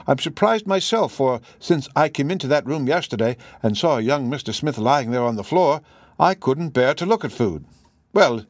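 housekeeper eagerly setting the gentleman right; chatty housekeeper. Acted. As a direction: contradict him respectfully, then gossip on. Voices the housekeeper contradicting Holmes.

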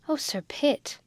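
high, moved sigh of a reply; Becky touched by the proposal; very much moved. Acted. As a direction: let it catch with feeling. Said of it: "very much moved".

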